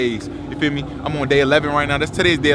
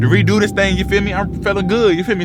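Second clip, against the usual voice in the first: hyped; 6 semitones higher, 5 dB louder than usual. Real, not acted. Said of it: "I'm gonna be hyped".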